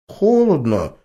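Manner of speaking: put-on high boy's voice, a touch whiny; a boy shivering and complaining; mild child complaint. A narrator's reading. Grandson complains of cold to grandma, child voice. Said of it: "пожаловался мальчишка".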